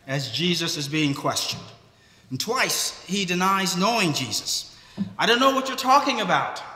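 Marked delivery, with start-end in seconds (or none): 5.2-6.6 higher, fast frightened denial; Peter's denial. Retold or imitated. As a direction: blurt it out to deny him. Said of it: "he says".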